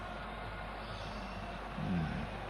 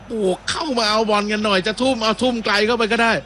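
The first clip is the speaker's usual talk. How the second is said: higher-pitched imitation of a player asking for support; voicing a player's call; 8 semitones higher than usual. Commentator voicing a player wanting teammates to come for the throw, lightly imitated call. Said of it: "อับดุลฮามิดบอก".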